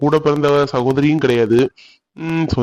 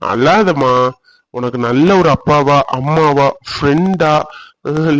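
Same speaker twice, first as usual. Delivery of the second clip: soothing, affectionate reassurance; tender consoling; slower than usual. Acted. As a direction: coax a crying sweetheart, often drawing words out slowly. Consoling a crying sweetheart.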